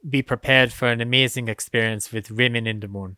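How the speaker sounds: lightly hammed-up showman addressing the crowd; a hint of grand stage announcer; premiere announcer. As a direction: play a host welcoming a gala audience, with halting delivery. Plays premiere host addressing audience.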